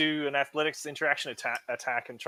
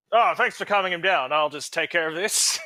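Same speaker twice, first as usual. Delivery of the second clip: breezy fake thanks; 4 semitones higher, 6 dB louder than usual. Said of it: "I'll be like".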